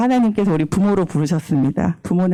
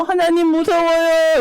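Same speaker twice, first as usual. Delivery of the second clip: acted fear; 6 semitones higher, slower than usual. Acts David crying alone in cave.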